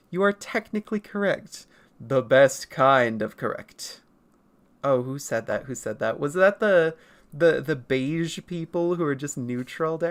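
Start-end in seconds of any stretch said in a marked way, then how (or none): 0.1-4.0 Futurama quote. Retold or imitated. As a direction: drone it like a proud bureaucrat. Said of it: "Like the Futurama quote".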